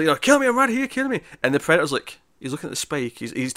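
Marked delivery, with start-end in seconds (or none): 0.2-1.2 put-on high, shouted Schwarzenegger taunt with a heavy Austrian accent; Arnold impression. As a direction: goad the monster like Arnold, voice pushed up high. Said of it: "so he's like".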